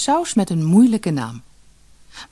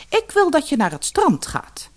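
hoog en langzaam gebiedend; bazige vrouw; 11 semitones higher than usual. Acted. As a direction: beveel als een koningin. Vrouw als koningin. (gebiedende vrouw)

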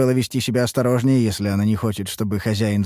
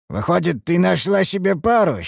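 teasing interruption; 9 semitones higher, 3 dB louder than usual. A narrator's reading. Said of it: "перебил её Мрадиш".

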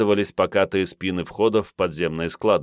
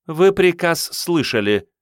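high, louder, cutting reply; curt cold woman; 10 semitones higher, 4 dB louder than usual. A narrator's reading. Blonde officer cuts Andrey off, curt and cold. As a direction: cut him off flat. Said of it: "отрезала блондинка".

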